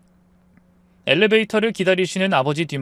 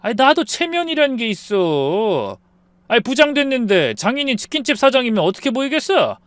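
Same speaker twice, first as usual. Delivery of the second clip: irritated; 8 semitones higher, 3 dB louder than usual. Acted. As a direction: drag it out, fed up. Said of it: "짜증스럽게 말했어요". (소파에 앉은 남편이 짜증스럽게)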